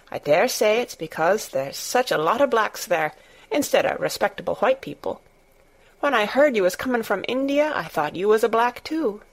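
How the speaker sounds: lightly voiced Yorkshire servant girl, frank and chatty; a hint of a blunt Yorkshire maid talking freely; Martha, Yorkshire maid.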